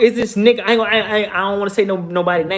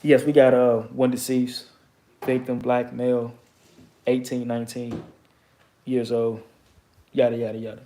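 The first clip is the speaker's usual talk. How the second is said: police radio call; 4 semitones lower, 3 dB quieter than usual. Retold or imitated. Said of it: "what the police said on that walkie-talkie".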